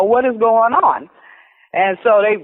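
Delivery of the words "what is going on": slow, slightly raised, annoyed what is going on; half-annoyed demand, drawn out slowly; a touch of attitude. Retold or imitated. Grabbed by coworkers in the hallway, slow irritated demand. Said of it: "I had an attitude".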